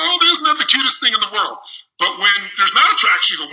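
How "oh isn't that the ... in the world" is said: high, smitten cooing over a partner; gushing adoration. Acted. Smitten partner excusing a quirk while attraction lasts, gushing. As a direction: gush in a high, adoring voice. Adoring partner's reaction acted out.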